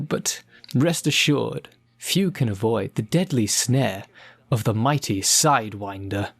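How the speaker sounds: smooth, theatrical supervillain menace; suave villain. Acted. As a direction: purr your threats like a gloating villain. Villain Sidewinder role in scene.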